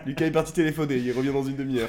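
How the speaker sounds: far from mic. Real, not acted. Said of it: "on t'entend de loin".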